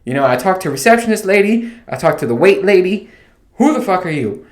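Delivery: worked-up imitation of being fed up; exasperated rant. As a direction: demand it in mock outrage, short of screaming. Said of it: "getting ready to just scream".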